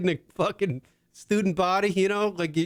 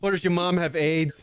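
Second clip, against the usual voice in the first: mock comeback. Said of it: "I shoulda said".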